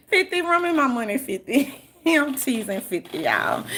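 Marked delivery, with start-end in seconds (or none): 0.1-1.8 playful demand. Pretend. Teasing demand to Fifty.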